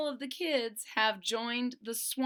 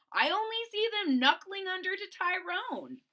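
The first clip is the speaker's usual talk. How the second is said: high, louder scornful voice; disdainful Boland; 10 semitones higher, 4 dB louder than usual. Acted. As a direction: sneer at the friends who gave in. Boland scoffs.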